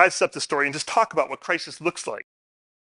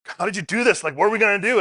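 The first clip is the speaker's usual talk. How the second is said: higher, exasperated son's complaint, lightly voiced; mock angry son; 6 semitones higher, faster than usual. Father retelling his angry son on the trail, mock exasperated. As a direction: play the fed-up kid, half-hearted. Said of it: "my son got angry".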